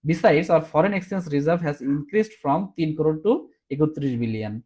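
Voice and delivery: very slow, word by word, as if dictating; slow dictation. Shown as a demonstration. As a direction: read it out slowly so they can write it. Reading out written answer. (ধীরে ধীরে ডিকটেশনের মতো পড়া)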